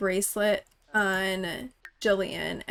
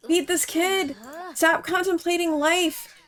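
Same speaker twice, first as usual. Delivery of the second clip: much higher and louder desperate yells; exasperated high screaming orders; frantic shouting; 6 semitones higher, 7 dB louder than usual. Real, not acted. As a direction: shriek at the game in disbelief. Frantic yelling at unfed Sim.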